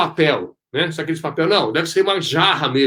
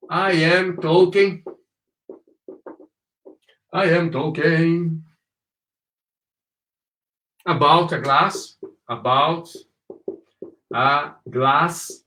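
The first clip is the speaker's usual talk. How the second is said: word by word, with long pauses; slow model reading; slower than usual. Shown as a demonstration. Teacher modelling English for students, slow and separated. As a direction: sound out each phrase slowly for learners.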